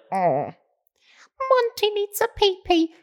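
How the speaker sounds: put-on very high cutesy baby-talk voice; silly baby talk. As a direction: coo it like talking to a puppy. Roommate voiced in the story.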